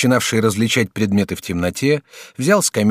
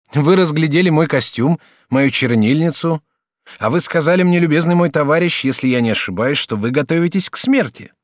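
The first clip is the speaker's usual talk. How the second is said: higher, brighter-pitched polite youth; lightly raised student voice; young student Jacques; 6 semitones higher, 4 dB louder than usual. Acted. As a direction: play the courteous young student. Student asks.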